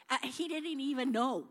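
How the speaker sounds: lightly excited retelling; amused emphasis. Acted. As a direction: tell it like it's the funny part.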